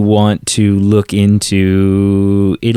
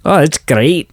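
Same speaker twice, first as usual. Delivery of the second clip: higher-pitched quick Scottish accent sample; 4 semitones higher than usual. Shown as a demonstration. Podcaster shows co-host a typical Scottish accent. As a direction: lilt it up like a stock Scot. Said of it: "thinking of a Scottish accent".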